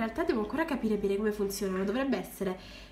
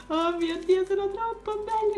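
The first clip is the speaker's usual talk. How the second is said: high and louder, bursting with joy; thrilled squeal; 9 semitones higher, 4 dB louder than usual. Real, not acted. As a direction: gush over how beautiful they are. Gushing over glitter. (acuto, pieno di entusiasmo)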